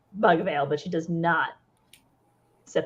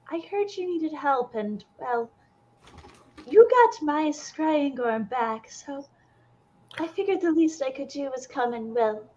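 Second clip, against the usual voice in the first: put-on nervous young woman; 5 semitones higher than usual. GM voices nervous NPC Ella.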